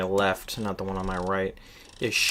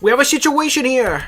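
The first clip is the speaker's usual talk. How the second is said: we have a situation, yelled high and loud; mock alarmed shout; 7 dB louder than usual. Streamer parroting the game's line to chat as a hammed-up shout. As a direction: play it like a panicked guard raising the alarm. Echoing the game character's line.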